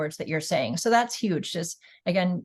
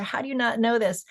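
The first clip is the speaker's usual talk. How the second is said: higher-pitched mock incredulity; passionate disbelief; 4 semitones higher than usual. Advocate challenging someone who doesn't know, mock incredulous. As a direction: act out a mildly exasperated advocate. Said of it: "when you're very passionate about something".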